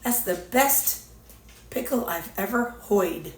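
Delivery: lightly put-on Boston accent, slow, "hoid" for heard; a hint of a Boston man, slowly. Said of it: "he had that Boston kind of accent".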